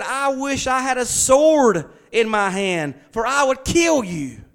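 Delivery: a mild hammed-up fury; mad prophet. Prophet threatens his donkey, slowly and angrily. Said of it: "He was mad".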